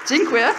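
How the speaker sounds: "Dziękuję" tried loudly as "jin-kwee-yeh"; foreign attempt. Real, not acted. Speaker checking Polish thanks with audience, "Dziękuję" loud as "jin-kwee-yeh". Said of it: "Was that pronounced correctly".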